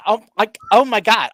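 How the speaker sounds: mocking narrator voice. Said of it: "I'm like hearing".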